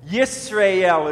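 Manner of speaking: Yisrael as yis-ra-EL, in three syllables. Shown as a demonstration. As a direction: sound out each syllable of Yisrael. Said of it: "It's three syllables to it".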